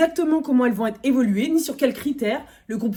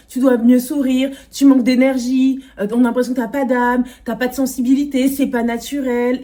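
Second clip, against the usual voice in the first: strict dance teacher; 2 semitones higher, 4 dB louder than usual. Retold or imitated. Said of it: "elle parlait aux filles comme à des machines de performance".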